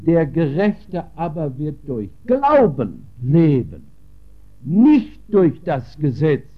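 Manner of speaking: "Glauben" pressed and held out at the peak; stress on Glauben. Shown as a demonstration. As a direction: underline "Glauben" with the voice. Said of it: "da müssen wir das Wort Glauben unterstreichen".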